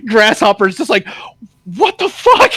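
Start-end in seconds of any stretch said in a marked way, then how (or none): 1.8-2.5 squeaky high what-the-fuck; mock cricket, high and bewildered; baffled cricket. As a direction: play the stunned little cricket. Cricket baffled by Jack Horner.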